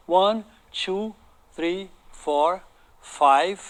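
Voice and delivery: usual speaking voice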